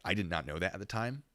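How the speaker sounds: ordinary talk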